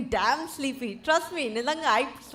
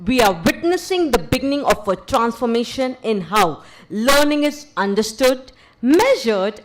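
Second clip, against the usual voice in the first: louder, formal welcoming speech; formal event emcee; 6 dB louder than usual. Acted. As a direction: announce the dignitaries with ceremony. Formal welcome address at launch.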